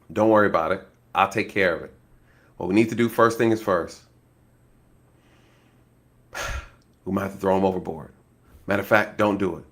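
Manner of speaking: low, hushed and steady, taking charge; calm hushed granddad. Retold or imitated. Granddad on the phone calming the caller, low and hushed. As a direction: soothe the panicking caller quietly.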